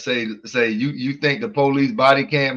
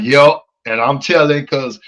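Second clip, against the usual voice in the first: bitter caller; 6 dB louder than usual. Retold or imitated. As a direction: act out a resentful tattletale. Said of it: "Sound bitter".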